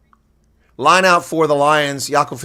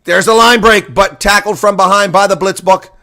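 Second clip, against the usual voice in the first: excited call; 4 semitones higher, 5 dB louder than usual. Real, not acted. Commentator calls a line break.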